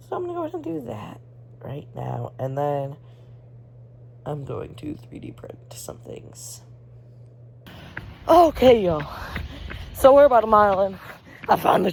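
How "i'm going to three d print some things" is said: slow whispered aside; whispering. Real, not acted. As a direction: whisper it, taking your time. Aside, unvoiced.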